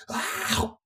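high, airy mock scream; brief stifled imitation of a screamer; high-pitched scream held back in volume; imitated scream. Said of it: "she had not stopped screaming".

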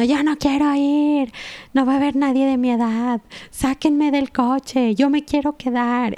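put-on sulky older daughter pleading to get out; whiny older girl. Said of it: "la otra niña grande atrás diciendo". (imitando a una niña mayor quejumbrosa)

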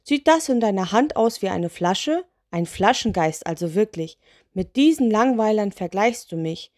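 mildly affronted lantern spirit; indignant. Acted. Spirit mistaken for bottle genie, mildly indignant. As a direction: grumble with a touch of outrage. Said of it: "Der Mann sah sie aufgebracht an".

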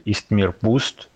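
"Ist mir Wust" said slowly as German; German pronunciation. Shown as a demonstration. Showing how the channel name sounds in Deutsch, slow German pronunciation. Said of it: "in Deutsch, that would sound like".

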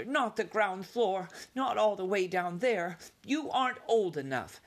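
high, pleading mother voice; fearful mother mouse, firm; anxious mother mouse. A narrator's reading. Mother forbidding.

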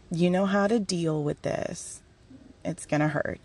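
soft, kindly steadying voice; gently reassuring. Retold or imitated. Dad preparing the speaker for hurt, gently reassuring. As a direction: let it settle down tenderly. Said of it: "gently loving and reassuring".

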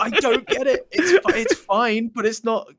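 high, laughing disbelief; laughing exasperated. Real, not acted. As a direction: laugh through the complaint.

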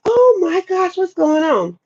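high panicked cry, imitated; retold panic. Retelling her high-pitched panic after smoking. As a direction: squeak it out like you're panicking. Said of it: "I just was like".

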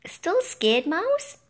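high teasing chirp; high teasing bird; chirpy taunt. A narrator's reading. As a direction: poke fun at the shivering mouse. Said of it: "Claire Feathers chirped".

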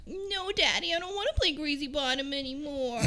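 put-on high, breathy-free childish squeak; little girl voice. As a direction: talk like a small girl. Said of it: "Do you like my little girl voice?".

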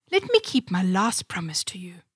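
whisper. Acted. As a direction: whisper it just before the kiss. Princess before kissing frog.

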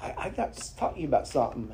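quick, hushed mock-serious warning. Preacher retelling teasing his friend, mock serious. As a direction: set up the tease with a straight face.

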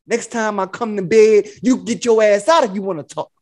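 retold pimp scolding; lightly put-on bossy pimp; Iceberg Slim. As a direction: lay down the law with mock swagger. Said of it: "I was Iceberg Slim in that shit".

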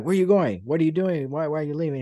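lightly acted disbelief; mock protest. Wrestler stopping his partner walking away, mock protest.

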